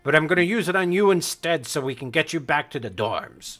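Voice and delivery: lightly voiced, insistent authority; a hint of commanding reprimand; stern battle master. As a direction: order the students home, brooking no argument.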